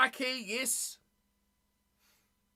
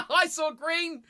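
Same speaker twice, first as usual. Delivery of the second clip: laughing self-mockery; 5 semitones higher, slower than usual. Real, not acted. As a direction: laugh at your own mistake.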